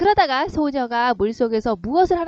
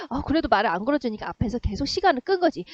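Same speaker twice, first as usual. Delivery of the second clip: ordinary talk, nothing marked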